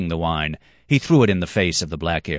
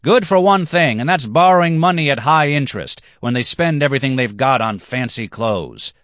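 much higher, louder, slowing at end; loud rant; 8 semitones higher, 7 dB louder than usual. Acted. Black-haired man rails at bankers, loud then slowing. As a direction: rail against them.

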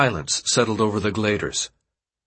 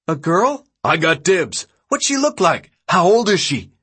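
high, raised, eager voices; excited crowd shouts; 8 semitones higher, 5 dB louder than usual. A narrator's reading. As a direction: throw out questions from a crowd. Excited crowd all talking at once.

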